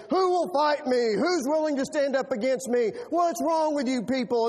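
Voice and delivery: mock giant's taunt. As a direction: call out the challenge like Goliath. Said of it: "hear the giant saying".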